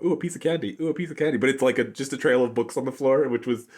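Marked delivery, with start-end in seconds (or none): 0.0-1.4 higher, lightly mocking dumb voice; dumb cartoon lure. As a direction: coo it like a silly cartoon bait. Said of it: "the dumb".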